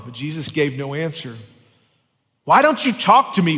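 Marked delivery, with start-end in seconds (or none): 2.5-3.6 Pilate demanding. Acted. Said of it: "Pilate demanded".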